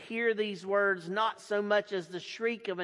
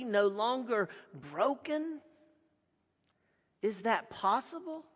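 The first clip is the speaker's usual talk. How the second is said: higher, amazed questions; astonished; 4 semitones higher than usual. Acted. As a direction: disbelief turning to wonder. Crowd reacting in astonishment.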